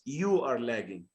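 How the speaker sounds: You picked out, are lagging falling away; contrastive stress on You. Shown as a demonstration. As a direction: put the weight on You. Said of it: "this is what kind of stress".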